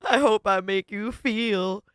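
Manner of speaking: slow mock-spooky welcome, breaking into laughs; lightly hammed-up shock-rock host; shock-rock singer voice. Streamer voicing the woman as a shock-rock singer, laughing. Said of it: "shock-rocker eyes".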